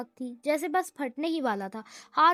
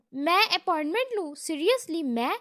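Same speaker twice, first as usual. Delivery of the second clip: outraged, louder disbelief; enraged yell; 3 semitones higher, 4 dB louder than usual. Acted. Boss's brother, insulted by the secretary, yells in rage. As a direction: bellow that he should need an appointment. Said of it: "وہ غضبناک ہو کر چلایا".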